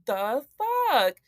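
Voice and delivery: slow, stunned disbelief; shocked. Retold or imitated. Watching the gutter fall off, slow stunned disbelief. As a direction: drag it out in shock. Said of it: "I was like".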